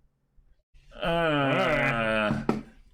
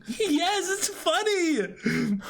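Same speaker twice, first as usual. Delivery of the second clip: very high, slow strained reply; forced cheer; much slower than usual. Acted. Answering the skeleton, high strained politeness.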